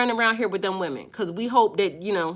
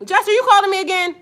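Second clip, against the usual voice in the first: quick, higher surprised question; catching the caller ringing in mid-rant; 7 semitones higher, 4 dB louder, faster than usual. Real, not acted. Host surprised by a caller interrupting her stream, higher and quicker.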